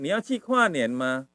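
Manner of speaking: slow teaching demo; drawn-out model phrase; example sentence. Shown as a demonstration. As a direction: say the example slowly for learners. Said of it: "Kuanen itu kayak orang melihat".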